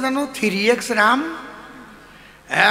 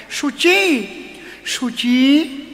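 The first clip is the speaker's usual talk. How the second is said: wife delighted; 5 semitones higher, much slower than usual. Acted. Wife echoing the pet name.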